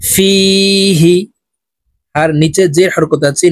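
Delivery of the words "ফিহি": "ফিহি" with a long "ফি" and a quick short "হি"; quick short harkat. Shown as a demonstration. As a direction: hold "ফি", then cut "হি" short. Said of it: "হরকতের উচ্চারণ তাড়াতাড়ি করিয়া পড়িতে হয়". ("ফিহি": ফি টেনে, হি তাড়াতাড়ি)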